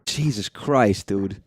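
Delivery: slow, drawn-out shaken exhale; adrenaline shakes. Real, not acted. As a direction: still rattled from the scare. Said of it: "my heart is pounding".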